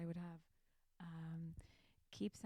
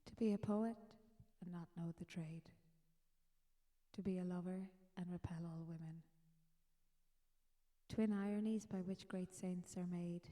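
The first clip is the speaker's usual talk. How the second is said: measured, deliberate reading of a short poem; poem recitation. Acted. Podcaster reciting a Kavanagh poem to listeners, measured recital.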